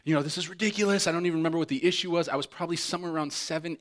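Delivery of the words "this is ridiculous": mock scolding mom. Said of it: "My mom's yelling at me".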